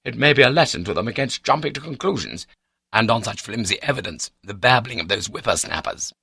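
high, loud, outraged tirade; raging indignation. A narrator's reading. Slandered baronet cursing his accusers, raging. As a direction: rail in wounded pride. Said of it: "in full raging fettle".

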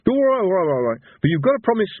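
high, hurried, spluttering surrender; wheezing. A narrator's reading. Villain coming up from the snow, wheezing. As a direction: gasp out agreement in a rush.

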